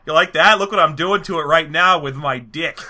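lightly put-on boastful taunt; Kubrick. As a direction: crude swagger, showing off to a rival. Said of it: "best Stanley Kubrick impression ever".

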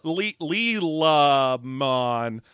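stumbling over an invented name; fumbling fake name. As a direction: make up a name on the spot, hesitating.

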